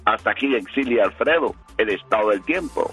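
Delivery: steady radio forecast read; weather forecast read. Acted. Reads the weather forecast on air.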